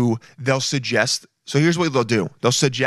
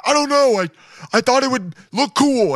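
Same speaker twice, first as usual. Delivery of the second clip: wounded salesman voice, hammed up; hurt pillow guy; 11 semitones higher than usual. Imagined pillow guy after being punched, whiny and offended. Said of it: "And he's like".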